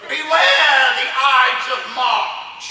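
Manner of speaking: slow, ominous soothsayer; drawn out like a prophet of doom; soothsayer warning. Acted.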